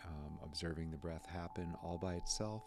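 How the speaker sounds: calm, settling meditation guide; understated meditation voice; guided meditation. Acted. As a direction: gently guide attention to the breath. Leads a breathing meditation.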